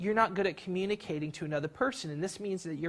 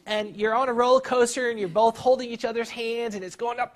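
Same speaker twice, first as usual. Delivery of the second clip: higher and louder, climbing; building excitement; 5 semitones higher, 7 dB louder than usual. Acted. Teacher acting out a roller coaster ride, building excitement. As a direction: ride the climb with rising thrill.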